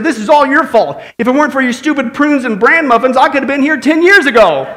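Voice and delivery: hammed-up angry blame; enraged old man. Old man blaming his wife in heaven, hammed-up rage. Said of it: "goes in this fit of rage and anger".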